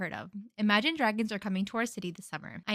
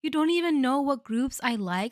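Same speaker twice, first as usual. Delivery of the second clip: indignant retort; 5 semitones higher, 5 dB louder than usual. Retold or imitated. Retorting to the imagined partner.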